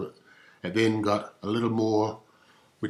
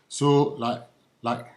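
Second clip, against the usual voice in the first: put-on higher, bouncy valley-girl like and ooh; poppy up and down; 4 semitones higher, slower than usual. Comic voicing two-thousands young women, in a bouncy up-down like. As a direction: swoop up and down like a teen girl. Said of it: "it went something like".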